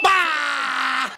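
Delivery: long drawn-out "bah" shout; celebratory yell. Real, not acted. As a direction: holler it as the shot drops. Celebrating a made shot. (mahabang sigaw ng tuwa)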